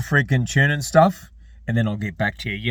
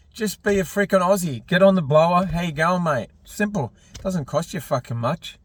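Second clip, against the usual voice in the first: worked-up rant; 7 semitones higher than usual. Real, not acted. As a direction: push the viewers hard, get worked up. Ranting, urging viewers to call.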